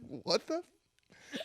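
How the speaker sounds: high, drawn-out mock exasperation; retold anger. Son retelling his reaction to mom's fridge photo, hammed-up pissed-off. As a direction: stretch it out in comic disbelief. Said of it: "I was so pissed".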